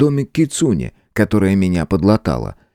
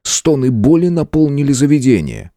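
ordinary delivery

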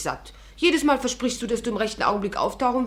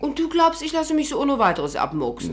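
indignant outburst; 6 semitones higher, 5 dB louder than usual. Acted. Celia empört über den Plan.

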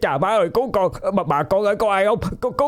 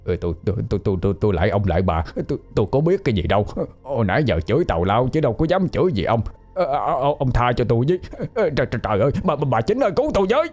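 tearful panicked begging; 3 semitones higher, 5 dB quieter, much faster than usual. A narrator's reading. Man crawling away begs the demon for mercy, crying and panicked. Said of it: "vừa bò thiệt nhanh vừa khóc".

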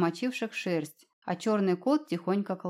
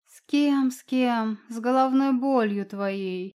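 sarcastic retort, louder at the start; snide snort; 3 semitones higher, 4 dB louder, slower than usual. Acted. Cat mocking Alina's question, snide. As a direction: snap it back snidely, slowing at the end. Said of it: "ехидно фыркнул кот".

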